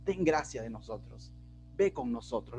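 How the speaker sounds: low, subdued appeal to God; humble plea. Retold or imitated. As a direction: plead gently, without confronting. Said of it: "no le está encarando a Dios".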